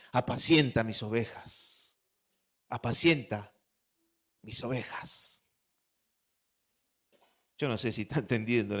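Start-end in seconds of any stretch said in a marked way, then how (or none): 0.1-5.4 slow, low, deliberate command; solemn charge. Acted. Jesus entrusts his sheep to Peter, solemn slow charge. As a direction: lay it down slowly, pausing between words.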